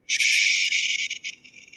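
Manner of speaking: a breathy whispered "Shh"; hushing. Acted. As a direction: silence them with a hush. Hushing a date in a scene.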